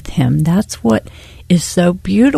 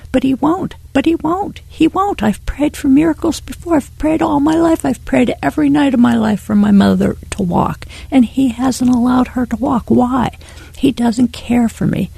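rising, higher protest building on each he won't; bitter pleading; 4 semitones higher than usual. Retold or imitated. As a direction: argue with God, hurt and defiant. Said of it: "And I said".

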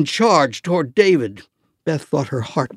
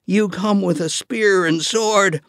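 loud voice; 6 semitones higher than usual. Acted. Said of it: "David said in a loud voice".

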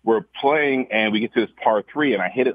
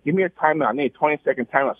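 mock referee call, a bit higher; hammed-up request for a timeout; imitating himself calling a break; 6 semitones higher, faster than usual. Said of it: "I tap my shoulder and say".

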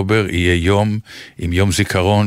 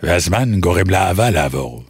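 put-on Hebrew with a light French accent; 4 semitones lower than usual. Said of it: "אם תגיד במבטא צרפתי". (מבטא צרפתי בעברית)

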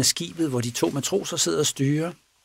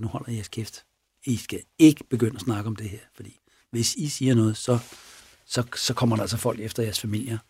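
threatening; 2 semitones lower, 3 dB quieter than usual. Retold or imitated. Killer ordering two sailors to keep quiet, mildly threatening. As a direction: quietly lay down a warning. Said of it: "Så han truer dem simpelthen".

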